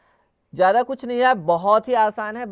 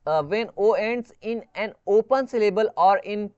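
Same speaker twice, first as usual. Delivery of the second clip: slow rule reading; much slower than usual. Shown as a demonstration. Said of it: "या तो ये silent ई के द्वारा फॉलो होता है".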